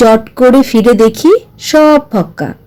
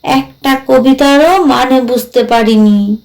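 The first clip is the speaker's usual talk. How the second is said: lightly voiced ghost, rueful. Ghost confesses failing to grasp the poems, lightly voiced, rueful. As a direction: play a ghost lightly, stretching the phrase ends. Ghost character speaking in the story.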